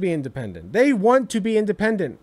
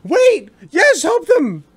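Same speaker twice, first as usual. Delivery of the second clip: louder, higher startled realization; a hint of amazed agreement; taken aback; 8 semitones higher, 6 dB louder, much slower than usual. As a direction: replay a stunned double take. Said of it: "I was so taken aback by that".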